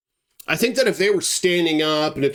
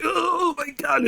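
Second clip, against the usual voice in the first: drawn-out high cry of alarm; mock panic; slower than usual. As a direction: imitate a scared man, high and stretched out. Acts Ryan panicking at bear.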